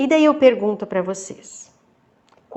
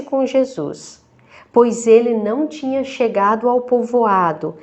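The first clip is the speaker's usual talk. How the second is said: measured, deliberate Gospel reading with pauses between phrases; scripture reading; 4 dB louder than usual. Real, not acted. Deacon reads the Lazarus passage to her listeners, measured scripture reading. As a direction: read it out clearly and solemnly, phrase by phrase.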